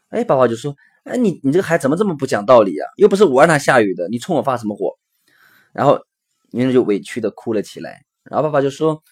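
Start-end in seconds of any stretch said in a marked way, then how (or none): 1.0-4.9 quick, mildly cross parental telling-off; acted exasperated scolding. Father to angry child over rained-off picnic, exasperated scolding. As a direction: scold in a rush, fed up.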